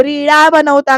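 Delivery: loud, mocking rebuke; scolding yell. Bayo berating Sarika over making reels, angry scolding. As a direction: raise the voice to tell her off. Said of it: "ओरडून आणि म्हणते".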